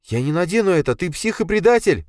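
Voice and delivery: put-on high, loud enraged girl; furious hiss. A narrator's reading. Катя furiously refuses the handcuffs, calling Dima traitor. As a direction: spit it at the traitor. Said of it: "зашипела Катя".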